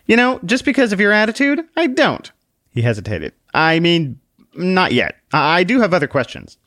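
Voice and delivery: bristle, then back down; annoyed man. Acted. The man answers Book in annoyance, then hesitates.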